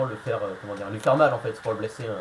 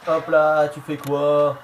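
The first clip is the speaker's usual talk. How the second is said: loud taunting; 2 semitones higher, 7 dB louder, much slower than usual. Real, not acted. Player taunting the computer wrestler, loud and indignant. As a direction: call the opponent out loudly. Trash-talking the game opponent.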